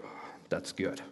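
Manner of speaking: dreamy savoring hush. Acted. Savoring brownie smell.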